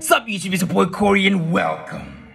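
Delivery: lightly voiced YouTuber intro; Corey Kenshin intro. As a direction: greet like a hyped YouTuber. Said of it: "give that impression of, you know, Corey X Kenshin".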